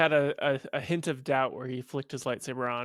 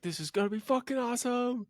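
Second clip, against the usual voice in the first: high-pitched excited self-quote; hyped; 9 semitones higher than usual. Retold or imitated. Retelling his reaction to Snoke's death, hyped. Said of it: "I was so hyped".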